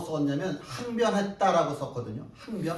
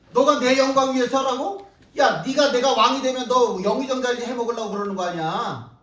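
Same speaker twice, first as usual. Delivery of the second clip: loud, higher, accusing outburst; indignant rebuke; 5 semitones higher, 7 dB louder than usual. Acted. Jesus confronting Peter over his motives, loud indignant rebuke. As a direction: throw the accusation at him hard.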